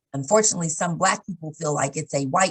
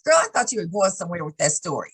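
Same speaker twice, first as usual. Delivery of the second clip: laughing mom; faster than usual. Retold or imitated. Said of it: "she would be like".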